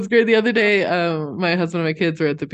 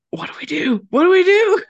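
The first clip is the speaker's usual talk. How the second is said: rising panicky high voice, getting louder; mock panic; 4 dB louder than usual. Storyteller imitating panicked beachgoers, high mock panic. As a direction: play the frantic beachgoers, voice climbing.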